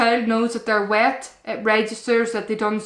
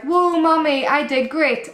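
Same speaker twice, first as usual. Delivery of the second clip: imitating a toddler; 5 semitones higher than usual. Mum voicing proud toddler.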